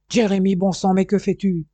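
frantic father losing patience; impatient shout. Acted. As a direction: yell at the son to hurry. Father impatient, son slow to come.

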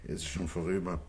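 defeated murmur. Acted. Broken man gives up.

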